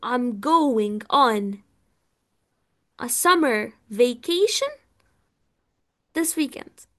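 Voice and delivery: each word drawn out very slowly; slow model sentence. Shown as a demonstration. Teacher modelling the sentence slowly for students. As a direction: dictate it slowly for the class. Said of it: "هقول".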